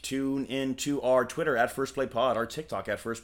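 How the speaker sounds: stuck repeating like a broken robot; glitching robot voice. Pretend. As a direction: loop the words like a glitch. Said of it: "he's glitching".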